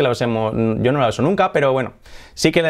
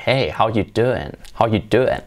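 flirty Joey line; 3 semitones lower, slower than usual. Retold or imitated. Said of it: "la típica que decía Joey de, de Friends".

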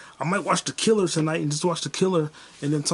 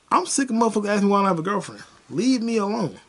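raised, higher-pitched exasperation; fed-up rant; 5 semitones higher, 3 dB louder, faster than usual. Real, not acted. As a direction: burst out, tired of being asked. Fed up with dating questions.

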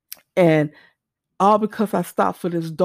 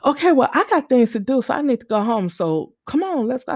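brisk, higher-pitched prodding; 5 semitones higher, faster than usual. Retold or imitated. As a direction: imitate someone pushing to get going. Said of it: "because she kept prodding".

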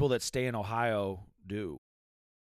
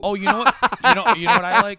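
excited character voice; 6 semitones higher, 12 dB louder, faster than usual. Pretend. Playing an ancient Scandinavian character.

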